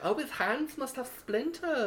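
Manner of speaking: high, slow mock worry about splinters; mocking friend. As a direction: imitate her fussy concern. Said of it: "You're like".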